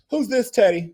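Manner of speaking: a put-on imperious diva; mock singer demanding who the stranger is; imitating a singer. A singer voiced in retold story.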